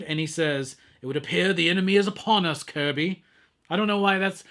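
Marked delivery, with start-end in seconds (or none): 1.0-3.2 lightly voiced solemn prophet, fast; a hint of a grave prophet, rushed; Prophet voice, quick first try. Shown as a demonstration. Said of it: "that's my Prophet voice from now on".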